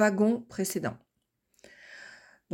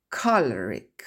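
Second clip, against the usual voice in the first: choleric with the stress on CHOL, falling; 8 semitones lower, slower than usual. Shown as a demonstration. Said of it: "les lettres rouges marquent l'accent tonique". (accent tonique sur CHOL dans choleric)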